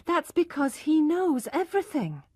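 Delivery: enthusiastic. A narrator's reading. Tess defending her husband to Alec, enthusiastic. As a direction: gush with faith in him. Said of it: "Tess replied with enthusiasm".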